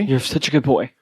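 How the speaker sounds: praising a dog fondly; reassuring. Acted. Player comforting anxious dog, reassuring pet-praise voice. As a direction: gently insist to a doubting pet.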